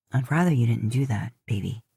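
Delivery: low, gentle husband; Dean's voice. A narrator's reading. Dean to his wife.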